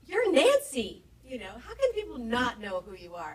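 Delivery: high, loud mock outrage; incredibly offended. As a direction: act out a sister-in-law's indignant disbelief. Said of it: "was incredibly offended".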